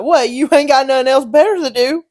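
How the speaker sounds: mock taunting challenge. Dad needling his kid on the phone, taunting. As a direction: throw it out as an imitated dad's challenge.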